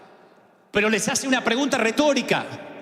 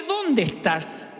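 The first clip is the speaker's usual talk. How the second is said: tender invitation; 3 semitones higher, much slower than usual. Acted. God's invitation out of hiding.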